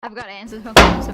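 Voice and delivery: loud self-scolding yell; shouting. Real, not acted. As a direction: yell it at yourself. Repeats line loudly at herself.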